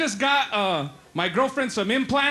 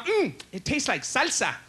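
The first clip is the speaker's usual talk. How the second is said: flirty gay cop; 2 semitones higher, 3 dB quieter than usual. Acted. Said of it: "Imagine if he was gay".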